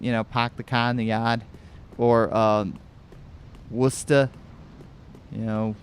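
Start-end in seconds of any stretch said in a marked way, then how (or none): 0.2-1.4 lightly done Boston accent, dropped r's. Shown as a demonstration. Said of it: "the Boston type of accent". 3.7-4.3 Boston-accented "Worcester", final r dropped. Shown as a demonstration. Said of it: "the Boston type of accent".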